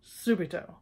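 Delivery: subito stressed on SU, SOO-bee-to; subito, first syllable stress; Italian pronunciation. Shown as a demonstration. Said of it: "my absolute favorite".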